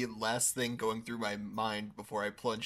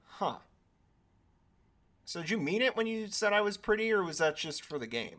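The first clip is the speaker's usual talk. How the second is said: flirty high voice; 10 semitones higher, 5 dB louder, faster than usual. Pretend. Imagined flirty question on ride.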